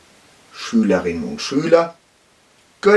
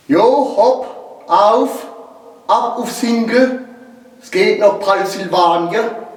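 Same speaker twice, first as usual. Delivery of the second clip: rowdy rallying cry; 8 semitones higher than usual. Acted. Karl rallies cowboy ride.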